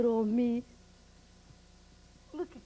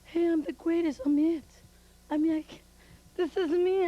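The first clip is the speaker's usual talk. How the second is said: brash bragging, louder; loud boasting; 3 semitones higher, 5 dB louder than usual. Acted. Spanish Fury brags to the fans, loud and brash. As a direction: crow about being the greatest. Wrestler boasting during interview.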